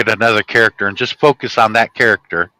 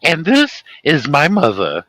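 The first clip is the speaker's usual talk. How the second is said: Curly impression; 3 semitones higher, slower than usual. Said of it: "and Curly goes".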